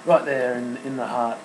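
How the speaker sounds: quiet, emotional, choked up; words catching as emotion rises; choking up. Real, not acted. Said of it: "I'm choking up here".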